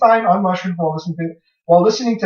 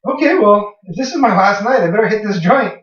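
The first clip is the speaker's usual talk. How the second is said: resigned; 4 semitones higher than usual. Retold or imitated.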